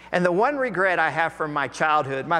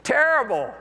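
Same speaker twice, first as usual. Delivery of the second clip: an even higher, hammed-up "Terrible." falling hard at the end; mock-groaned reply; 9 semitones higher, 3 dB louder than usual. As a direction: exaggerate the fed-up groan for laughs. Preacher repeats fishermen's answer.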